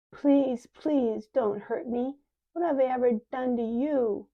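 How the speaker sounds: high, loud, fearful begging; frightened pleading. Acted. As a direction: Faith begging the old woman with the knife, high and fearful. Faith begs at knife.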